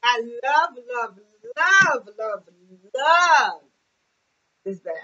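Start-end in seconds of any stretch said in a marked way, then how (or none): 0.1-3.6 "love" repeated, growing to a big final "love"; gushing emphasis. Real, not acted. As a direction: stretch each "love" and build the last. Gushing repetition about the bag.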